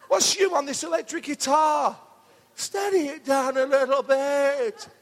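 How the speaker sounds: mock scolding, half laughing; Michael Winner impression. Preacher ribbing the guitarist in a Michael Winner voice. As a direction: tease the guitarist like a fussy advert voice. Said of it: "the Michael Winner advert".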